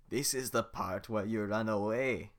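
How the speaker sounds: slow loud ogre threat; menacing Shrek. Acted. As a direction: lean in and scare them.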